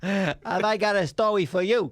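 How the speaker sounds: hammed-up New York storyteller; thick American accent. Comedian wooing the fans, thick American accent. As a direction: sell it in broad American. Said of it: "we just did our thick best American accents".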